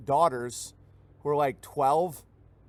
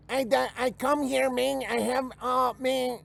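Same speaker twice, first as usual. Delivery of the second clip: much higher mock Mexican accent, halting; broken English accent; 8 semitones higher, slower than usual. New immigrant speaking broken English, high mock Mexican accent. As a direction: stumble through like a new arrival. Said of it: "if he's like".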